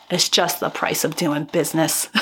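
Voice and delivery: put-on a so-so New York accent on the quote. Host quoting Jack Kelly's motto in a New York accent. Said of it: "I don't know if that's a good New York accent".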